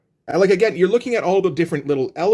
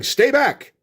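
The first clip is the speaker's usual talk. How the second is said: higher-pitched heroic cry, lightly hammed up; mock action-hero warning, pitched up; mock exclamation; 10 semitones higher than usual. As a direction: call it out like a comic-book exclamation. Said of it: "way too many exclamation points".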